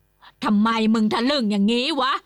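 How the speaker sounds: loud, rough rebuke; angry scolding. A narrator's reading. Uncle grabbing his nephew's shirt, angry. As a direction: shake him with words.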